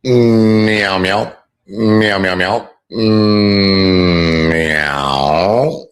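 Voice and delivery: sing-song meowing like a cat; playful kitten meows. Pretend. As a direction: meow playfully at the chat.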